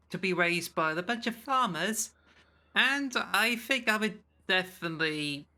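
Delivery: exaggerated Cornish accent. Shown as a demonstration. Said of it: "but I can exaggerate it".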